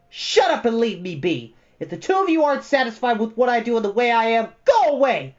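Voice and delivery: high, loud furious scream. A narrator's reading. Bastian screaming at Atreyu before everyone. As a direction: scream him away. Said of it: "Bastian screamed at him".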